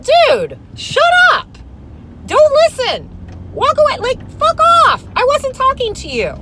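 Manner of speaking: high, loud shouted retort; shouting at the coworker, high and loud; retold yelling. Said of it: "I was like".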